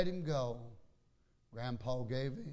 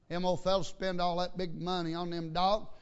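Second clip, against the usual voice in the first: raised, animated preacher voice; lively pulpit delivery, pitched up; preaching; 5 semitones higher, 4 dB louder than usual. Real, not acted. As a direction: preach it out to the congregation.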